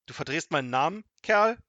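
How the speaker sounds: loud, high-pitched indignation; angry shout. A narrator's reading. Wizard rebukes Kasperl for twisting his name, angry shout. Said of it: "rief er zornig".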